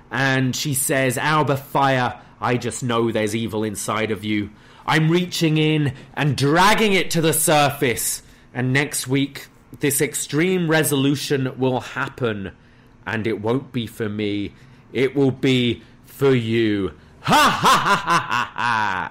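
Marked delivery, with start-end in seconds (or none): none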